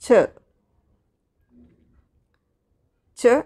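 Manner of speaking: ച said twice, crisp and isolated; teacher showing the digraph sound. Shown as a demonstration. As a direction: model the ch sound ച for the class. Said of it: "ഈ ഒരു പ്രൊനൗൺസിയേഷനാണ് വരുന്നത്".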